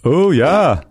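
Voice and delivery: high-pitched, badly faked Liverpool accent; terrible Liverpool accent. Answering the host about the show, terrible Liverpool accent. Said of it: "That's my terrible Liverpool accent".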